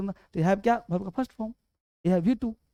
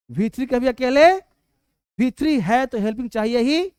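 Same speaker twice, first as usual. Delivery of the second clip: emphatic teaching; 3 semitones higher, 4 dB louder than usual. Real, not acted. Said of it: "emphasising rule again".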